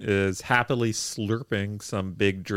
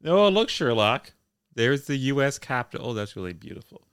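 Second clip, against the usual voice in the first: eager tour guide; 3 semitones higher than usual. Retold or imitated. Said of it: "the driver will say".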